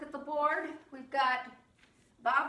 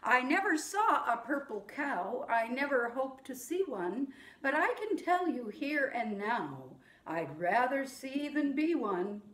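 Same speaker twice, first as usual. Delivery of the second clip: recited rhyme. Shown as a demonstration. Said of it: "This one, you just say it".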